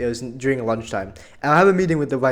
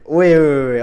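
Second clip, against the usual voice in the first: alarmed wait; 7 dB louder than usual. Retold or imitated. Panicked reply to vice principal.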